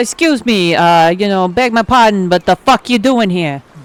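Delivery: put-on gruff Jersey accent. Speaker voicing a New York bird confronting another, in a gruff Jersey voice. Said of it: "give them like that Jersey gruff voice".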